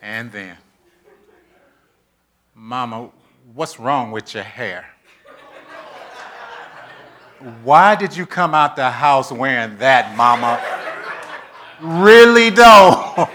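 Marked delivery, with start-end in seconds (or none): 2.5-13.3 teasing, laughing scold of mama; nagging daughter. Retold or imitated. Daughter fussing at mama over her hair, laughing.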